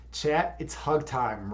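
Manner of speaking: a hint of a gruff pro wrestler. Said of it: "gruff pro wrestler voice".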